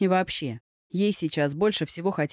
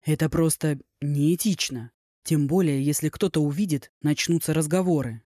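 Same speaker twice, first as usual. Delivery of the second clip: irritated but calm. Acted. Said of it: "старался говорить спокойно, но в голосе слышалось раздражение".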